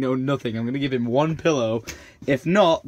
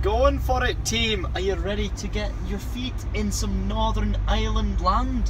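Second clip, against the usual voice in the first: lightly put-on Scottish accent, higher and bright-spirited; rally the team in a Scottish lilt; 6 semitones higher than usual. Vlogger rallying friends to disembark, playful Scottish accent. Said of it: "Why are you speaking Scottish still?".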